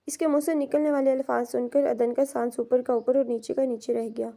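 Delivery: ordinary delivery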